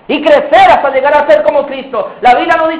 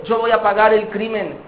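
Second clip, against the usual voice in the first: resigned answer; 3 semitones lower, 6 dB quieter than usual. Acted. Accused answers at trial.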